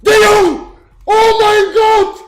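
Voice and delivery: loud, high scream of disbelief; excited scream. Real, not acted. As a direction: scream with joy, laughing at the end. Top player pulled, screaming.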